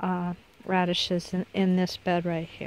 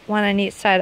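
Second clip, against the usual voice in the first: talking through hiccups; words broken by real hiccups; faster than usual. Real, not acted. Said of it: "I have the hiccups".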